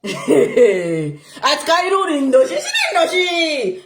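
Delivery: slow, laughing proclamation. Real, not acted. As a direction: laugh through the name slowly.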